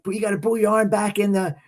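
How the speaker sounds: angry bus driver threatening to pull over. Retold or imitated. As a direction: scold the kid to get back in. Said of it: "she's like".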